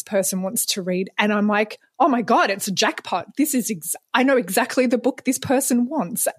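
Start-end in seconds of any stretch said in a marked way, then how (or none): 2.0-6.3 mildly excited, higher-pitched retelling; retold excitement. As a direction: replay a thrilled realisation. Retelling her jackpot book-match moment.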